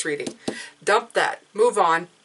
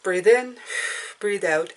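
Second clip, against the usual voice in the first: calm breathing cue. Shown as a demonstration. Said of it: "There's no rush".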